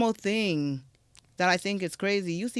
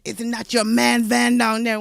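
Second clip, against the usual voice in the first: a lightly voiced Southern Black accent, louder and teasing; 4 semitones higher, 7 dB louder than usual. Retelling the officer pointing out her watching ex, lightly voiced Southern Black accent. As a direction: say it in your own accent, pointing him out. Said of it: "I'ma say it in my accent".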